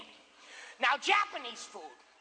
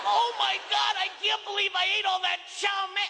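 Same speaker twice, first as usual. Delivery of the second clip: overstuffed groan-shout; 5 semitones higher than usual. Acted. Diner at the buffet, hammed-up stuffed shout. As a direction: shout it like you've eaten far too much.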